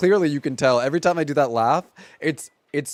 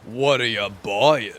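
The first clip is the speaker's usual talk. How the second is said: put-on old lady from the Bronx; 4 semitones lower, slower than usual. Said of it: "your old lady from the Bronx impression".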